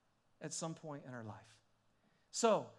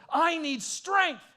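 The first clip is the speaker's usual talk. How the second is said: slow, much higher and louder cry for strength; desperate plea; 10 semitones higher, 13 dB louder, much slower than usual. Retold or imitated. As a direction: drag it out, pleading at full voice.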